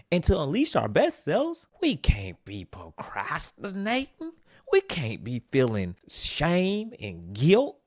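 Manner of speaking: half-joking put-on Southern accent, partly whispered; new Southern accent. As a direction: slip into a playful Southern accent. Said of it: "Sorry, this is my new accent".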